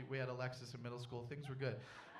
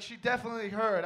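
panicked inner voice; 6 semitones higher, 9 dB louder than usual. Retold or imitated. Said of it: "I was like".

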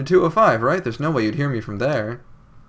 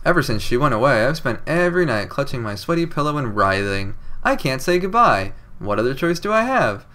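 wrong inflection reading. Shown as a demonstration. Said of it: "reading things with a wrong inflection".

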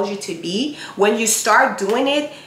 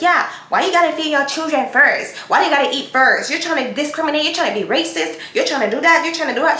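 mock-protest as if she argued back; complaining woman; 5 semitones higher than usual. Woman imagines arguing with Jesus, indignant whining. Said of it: "She did not try to compare herself like".

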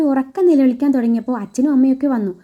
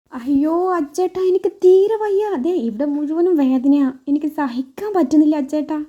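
faked pain; 2 semitones higher than usual. Wife fakes stomach pain to her husband, hammed-up whimper. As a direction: overplay the pain so he gives in. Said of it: "വർഷ അഭിനയിച്ച് തകർക്കുവാണ്".

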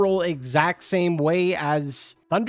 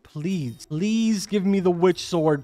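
begging; slower than usual. Real, not acted. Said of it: "I am begging you right now".

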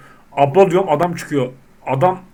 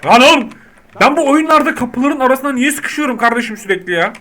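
high, loud frustrated yell; fed up with getting stuck; exasperated outburst; 6 semitones higher, 3 dB louder than usual. Real, not acted. Player stuck in the shop door, loud exasperated yell.

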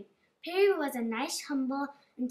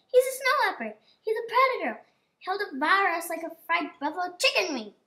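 frightened; 3 semitones higher, 5 dB louder than usual. Acted. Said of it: "Perry was frightened".

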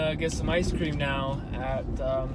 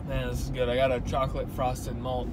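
mouth full. Real, not acted. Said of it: "I'm eating and driving".

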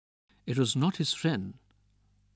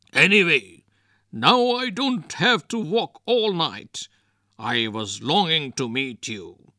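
taunting; 4 dB louder than usual. Acted. Wrestler taunting the ghost.

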